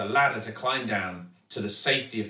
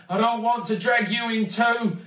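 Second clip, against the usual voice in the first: anxious warning; 9 semitones higher, 4 dB louder than usual. A narrator's reading. Dad warns wobbling daughter.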